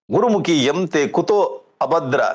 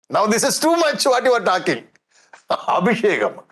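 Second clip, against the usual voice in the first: mock angry father; 4 semitones higher than usual. Storyteller acts angry Hiranyakashipu.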